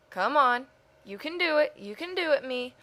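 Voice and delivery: self pep talk. Real, not acted. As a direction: cheer yourself on like a coach. Cheering herself on while drawing.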